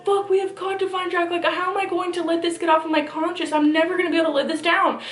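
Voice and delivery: a touch of hammed-up panic; freaking out. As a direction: replay the panic of losing the dog. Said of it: "so I'm freaking the fuck out, going".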